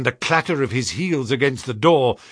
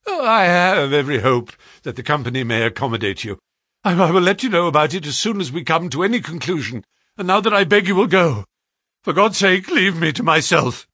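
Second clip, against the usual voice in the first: fast, pressured plea building higher and louder; desperate outburst; 4 semitones higher, 4 dB louder, faster than usual. A narrator's reading. Director begging visitors to leave him, desperate outburst. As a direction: blurt it out as restraint gives way. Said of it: "These last words were shot out of him".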